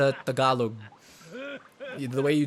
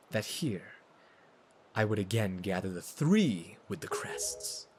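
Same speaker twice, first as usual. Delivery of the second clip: brooding villain monologue; 2 semitones lower than usual. Acted. Villain reflecting on the winds and fate, brooding. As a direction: intone a solemn villain's reflection. Reads Ganondorf's monologue aloud.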